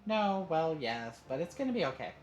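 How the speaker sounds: high, loud, hurried-in reassurance; quick reassurance. A narrator's reading. Mom heading off a dad's worry, reassuring. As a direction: jump in emphatically to reassure. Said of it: "quick to reassure him".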